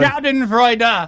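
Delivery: angry. Shown as a demonstration. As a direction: spit the word out angrily. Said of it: "when you say that angry".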